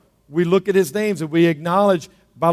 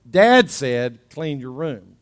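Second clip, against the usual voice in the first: dad's authority; 4 semitones lower, slower than usual. Acted. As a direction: pass on dad's order with weight. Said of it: "a little more weight to it".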